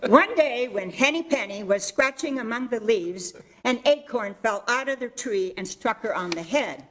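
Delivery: storytelling teacher voice reading to the class. Acted. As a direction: read it like a teacher telling a fable. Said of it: "my teacher voice".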